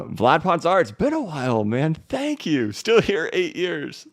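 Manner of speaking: high, loud, delighted shout-out; excited thanks. Real, not acted. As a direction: greet a long-lost supporter, pitch soaring. Thanking a long-time viewer for donation.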